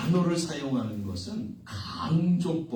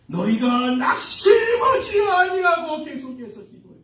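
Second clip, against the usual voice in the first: loud, raised declamation; preached scripture quote; 10 semitones higher, 7 dB louder than usual. Retold or imitated. Preacher quotes Jesus to the congregation, forceful declamation. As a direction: proclaim the verse with force.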